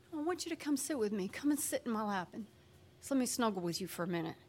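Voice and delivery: soft, patient invitation; tender coaxing. Acted. God asking a child to snuggle, tender coaxing. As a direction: coax the child gently, softly. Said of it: "And God is like".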